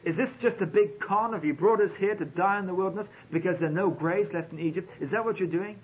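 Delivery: mock-panicked people crying out at Moses; panicked accusation. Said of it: "they really began to panic and cry".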